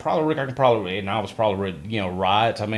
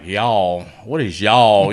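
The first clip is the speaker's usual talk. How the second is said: mimicked puzzlement; 3 semitones lower, 7 dB louder, much slower than usual. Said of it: "everything is like".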